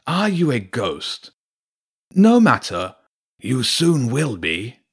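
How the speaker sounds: wolf villain calling out, high and slow; drawn-out, taunting threat from a wolf; Garor Ulf. A narrator's reading. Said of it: "the voice of Garor Ulf called out".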